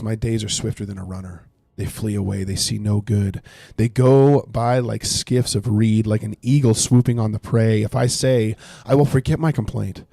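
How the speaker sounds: earnest read-aloud of a lament; scripture reading. Acted. Streamer reads Job's lament to chat, earnestly. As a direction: read Job's complaint as if it were yours.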